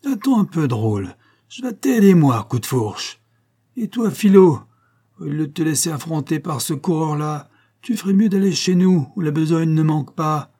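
loud, high, rough yell across the meadow; angry father shouting across the field at his daughter's suitor. Acted. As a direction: bellow at the young man from far off. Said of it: "une voix rude qui crie".

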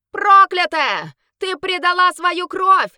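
high, loud, slow shout; someone shouts. Acted. A guest shouting curses at the traitor. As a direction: hurl the curse at her. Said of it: "закричал кто-то".

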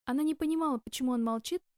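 ordinary delivery, nothing marked

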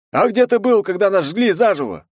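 angry townsperson demanding where he was; crowd member shouting. A narrator's reading. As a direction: yell from the crowd, hitting где. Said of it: "раздалось из толпы".

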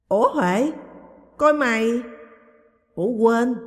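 loud, high startled exclamation; surprised cry. Acted. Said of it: "chị kêu lên".

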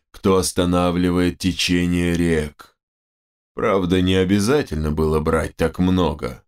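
solemn shaman. Acted. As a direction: pronounce it like an old tribal sage. Shaman addresses the hero. (размеренный голос верховного шамана)

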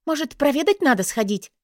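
high, grating squeak; annoying squeaky voice. A narrator's reading. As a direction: whine it up high and irritating. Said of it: "раздражающе писклявым голосом".

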